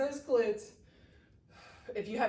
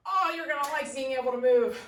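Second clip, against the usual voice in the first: laughing; 3 semitones higher, 4 dB louder than usual. Real, not acted. Laughs while joking about workout.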